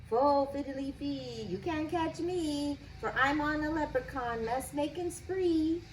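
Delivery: cheeky leprechaun chant, lightly done; teasing leprechaun. Acted. Leprechaun's rhyming taunt.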